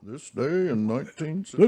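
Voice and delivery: mock evening news anchor, barely changed voice; Walter Cronkite impression. Host jokes a fake news bulletin, lightly voiced anchor. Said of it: "I'll do my Walter Cronkite impression".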